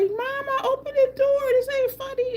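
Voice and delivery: high-pitched pleading child imitation; crying little boy. Locked-out boy begging mama at the door, mock crying. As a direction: mimic an upset kid wailing at a door. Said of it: "he started crying".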